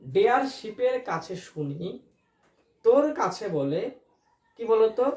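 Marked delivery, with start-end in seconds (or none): 0.0-3.9 slow mnemonic recital. Shown as a demonstration. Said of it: "আমি আবারও বলছি".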